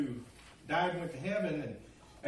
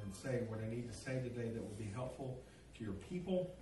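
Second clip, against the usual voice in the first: quiet, slightly low-pitched prayer; 4 semitones lower, 5 dB quieter than usual. Real, not acted. Pastor praying over the message before preaching, quiet prayer. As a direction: pray softly, in an unforced murmur of reverence.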